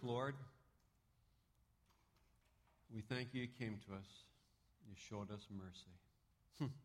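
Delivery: reverent prayer voice. Acted. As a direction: pray humbly for the group. Closing prayer.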